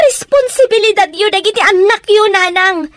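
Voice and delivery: tearful. Acted. Daughter pleads, crying.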